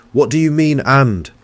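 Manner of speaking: loud, high disbelieving shout. A narrator's reading. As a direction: yell it in outrage. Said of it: "I shouted".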